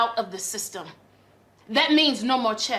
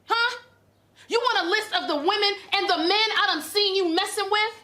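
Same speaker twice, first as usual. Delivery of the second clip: indignant, higher-pitched challenge; angry confrontation; 4 semitones higher than usual. Acted. Wife confronting husband over his affairs, angry and incredulous. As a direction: fire accusing questions at a cheat.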